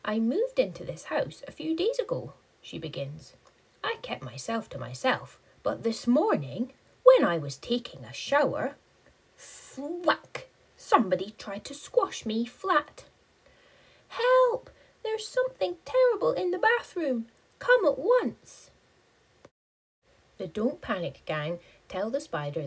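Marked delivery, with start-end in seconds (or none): 0.0-13.1 small spider voice. Acted. Spider tells her story. 14.1-18.7 high, loud frightened plea; panicked high cry. Acted. Spider's panicked call.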